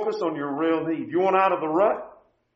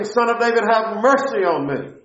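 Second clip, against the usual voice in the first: louder pleading cry, higher, louder; beggar crying out; 4 semitones higher, 4 dB louder than usual. Retold or imitated. Blind beggar calling to Jesus over the crowd, louder cry. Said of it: "He cries out saying".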